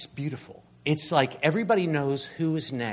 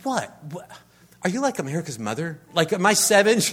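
incredulous retort; 5 semitones higher, 7 dB louder, faster than usual. Retold or imitated. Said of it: "And I'm like".

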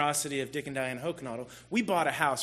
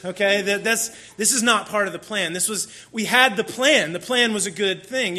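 retold panic; 3 semitones higher, 5 dB louder than usual. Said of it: "and I was like".

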